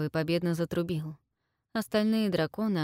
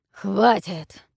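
dragon bark; 7 dB louder than usual. A narrator's reading. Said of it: "рявкнул ящер".

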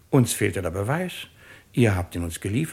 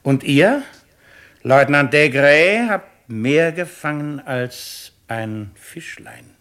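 slow, loud and higher, singling him out; loud pointed address; 4 semitones higher, 7 dB louder, slower than usual. Acted. The president singles out the lieutenant, loud and pointed. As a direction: aim it straight at him.

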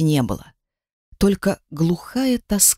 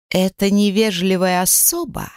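indignant retort. Acted. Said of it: "голос Миты приобрёл визгливые нотки".

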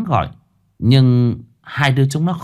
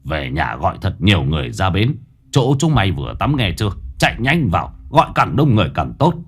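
urgent; 2 semitones lower than usual. Acted. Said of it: "giọng gấp gáp".

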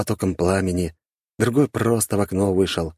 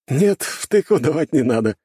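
high, louder character voice; lightly amused blond man; 9 semitones higher, 5 dB louder than usual. A narrator's reading. Blond man turns down the threatened thump, amused. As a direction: answer amused in a raised voice. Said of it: "хохотнул статный блондин".

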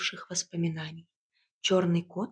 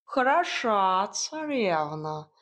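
slow, scornful snort of a talking cat; indignant cat snort; much slower than usual. A narrator's reading. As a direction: sniff at her with feline disdain. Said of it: "возмущённо фыркнул чёрный кот". (возмущённо фыркнуть)

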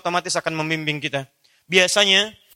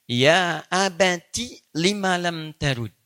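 tender son's plea; much slower than usual. Acted. Quoting the son's Arabic plea.

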